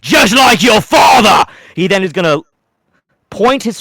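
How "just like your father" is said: very high, slow, loud mocking shout; villain mocking the hero after cutting him; cackling villain taunt. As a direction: cackle then sneer it down at him. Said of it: "laughs and goes".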